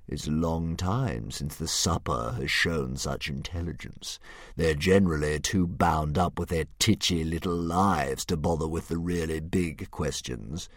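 slow, a hint of a grand beast; drawn out like a pleased old dragon; lightly voiced dragon. Dragon musing over Hiccup's riddle, slow and lightly grand.

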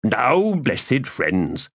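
florid, theatrical gentleman rogue; lofty, self-pleased orator; pompous Crupper voice. Acted. Crupper speaks.

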